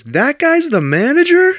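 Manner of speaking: high, loud mock disbelief; imitating a flabbergasted friend; incredulous outburst. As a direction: squawk it in hammed-up astonishment, pitch shooting way up. Mimics Jim's incredulous outburst.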